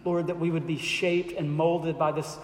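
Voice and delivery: earnest pastoral prayer, sinking to a hush at the end; closing prayer. Acted. Pastor praying over the congregation, earnest and reverent. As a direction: pray it over the room, intent and reverent.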